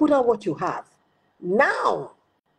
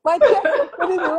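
laughing through the words, higher; 8 semitones higher, 5 dB louder than usual. Real, not acted. Two friends joking on a podcast, laughing. Laughing retelling own reaction.

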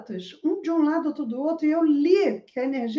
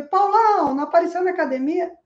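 calling out to a friend; 3 semitones higher, 4 dB louder, faster than usual. Retold or imitated. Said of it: "na hora que eu falei".

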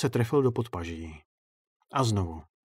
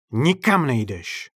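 slow, louder growl; growled threat; 3 semitones higher, 5 dB louder, slower than usual. Acted. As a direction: snarl it right into his face. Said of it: "Zavrčel mu do tváře".

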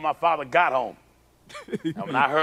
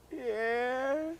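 timid yes; 7 semitones higher, 9 dB quieter than usual. Retold or imitated. Frightened boy answers father.

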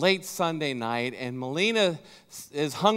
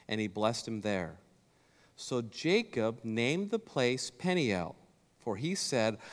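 scripture reading; 2 semitones lower than usual. Acted. Preacher reading Genesis to the church, calm scripture read. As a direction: read the passage steadily to the congregation.

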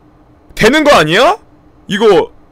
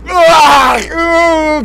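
disgusted scream; 6 semitones higher, much slower than usual. Real, not acted. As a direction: recoil and scream. Reacting to octopus-hand video.

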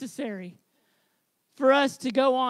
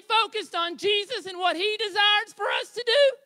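lifted into a higher tenor, rising questions; 4 semitones higher than usual. Real, not acted. Preacher urging the church to imagine, in high tenor. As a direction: reach up into your high tenor as you plead. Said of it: "And that was my high tenor voice".

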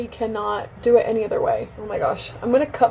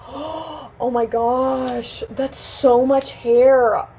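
slow, drawn-out dismay; aghast; much slower than usual. Real, not acted. Vlogger seeing the fallen hair, slow aghast moan. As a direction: stretch every word out in disbelief.

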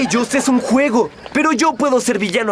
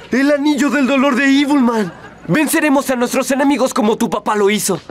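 mustache twirling villain; faster than usual. Acted. Villain gloats over evil ring.

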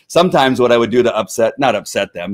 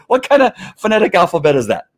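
puzzled dispatcher; 7 semitones higher than usual. Retold or imitated. Dispatchers puzzled by his alphabet.

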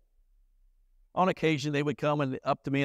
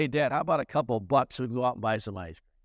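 quick, offhand ask for a couple bucks; a kid casually asking dad for ice cream money, quick and offhand; casual kid's request; 2 semitones lower, faster than usual. Retold or imitated. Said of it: "My kids would just go up to me and say".

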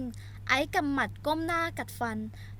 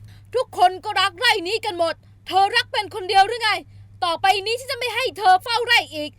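higher, loud male roar; snarling at her; 8 semitones higher, 9 dB louder than usual. Acted. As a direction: bark her down hard. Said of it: "ไอซ์หันไปตะคอกใส่เธอ".

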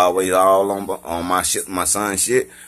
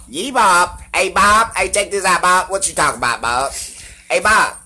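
high, loud country hollering; pitched-up country banter; exaggerated country voice; 11 semitones higher, 4 dB louder than usual. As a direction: call out to a buddy as a hammed-up country boy. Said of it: "I can sound as country as I fucking wanna".

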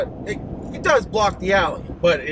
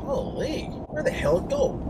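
much higher "holy", then a soft second one; startled disbelief that summer is over; surprised; 4 dB quieter, slower than usual. Real, not acted. Realizing the long weekend ended summer, surprised.

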